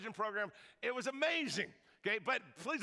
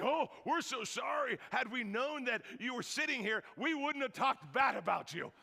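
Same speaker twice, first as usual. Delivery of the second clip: mock apology; 4 semitones higher than usual. Ladies apologising.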